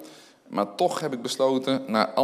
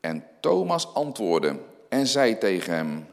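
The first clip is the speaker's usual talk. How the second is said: scripture reading. Acted. Reads John twenty aloud.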